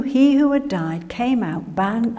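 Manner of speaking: ordinary talk, nothing marked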